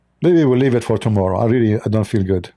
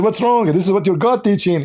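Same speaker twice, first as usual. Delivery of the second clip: retold taunt; 7 semitones higher than usual. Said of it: "I said".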